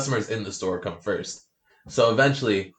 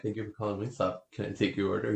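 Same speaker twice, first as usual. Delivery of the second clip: softer polite phone greeting; service phone voice; 8 dB quieter, faster than usual. Retold or imitated. Worker answering the Wingstop phone, soft polite voice. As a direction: answer sweetly like a cashier. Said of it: "I think I'm like".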